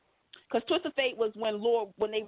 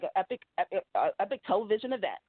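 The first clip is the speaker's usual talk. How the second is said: announcer voice; 2 semitones lower, faster than usual. Shown as a demonstration. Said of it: "Why am I gonna talk like an announcer?".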